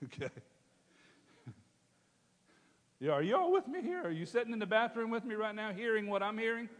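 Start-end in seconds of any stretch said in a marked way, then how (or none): 3.0-6.7 much higher, excited call-out; preacher firing up the room; rallying the crowd. Real, not acted. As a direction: pull the congregation in. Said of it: "preacher rallies the congregation".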